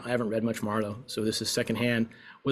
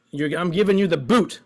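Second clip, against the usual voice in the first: higher, louder teasing line; playful mock threat; 4 semitones higher, 5 dB louder than usual. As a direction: toss it off as a playful jab. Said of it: "let's look at bootless".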